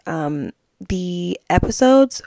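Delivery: words stretched by a yawn. Real, not acted. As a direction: talk through a yawn. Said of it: "Am I yawning?".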